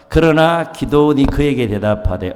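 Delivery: slow, loud congregational reading; scripture read aloud. Shown as a demonstration. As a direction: read the verse slowly together. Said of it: "한번 읽겠습니다". (회중과 함께 천천히 읽는 성경 봉독)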